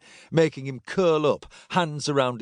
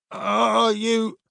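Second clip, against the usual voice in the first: high, awed question; alarmed realisation; 10 semitones higher than usual. A narrator's reading. Paling centurion realising who Silas is, alarmed. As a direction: ask it high, suddenly unnerved.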